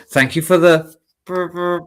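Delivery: put-on playful Welsh accent, trailing off. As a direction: try a Welsh lilt and falter. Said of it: "Might have to do a Welsh dragon".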